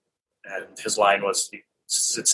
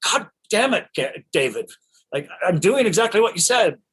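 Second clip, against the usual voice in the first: much higher-pitched mock exasperation; Gary Oldman, pissed; 8 semitones higher than usual. Actor protesting to director after many takes, mock pissed off. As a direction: imitate an irritated actor protesting to his director. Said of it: "Gary Oldman was getting pissed".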